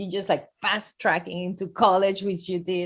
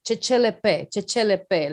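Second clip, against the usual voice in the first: raised, loud French catchphrase of a professor; imitated professor's catchphrase; 7 dB louder than usual. Student imitating the cardiology professor's French catchphrase, loudly. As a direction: mimic the professor's pet phrase, pushed out loud. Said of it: "And then he was always".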